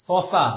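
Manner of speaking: "সসা" with dental s in place of sh; Kolkata pronunciation imitated. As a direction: mimic Kolkata "সসা", both consonants as plain s. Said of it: "সটাকে স এর মতো উচ্চারণ করে".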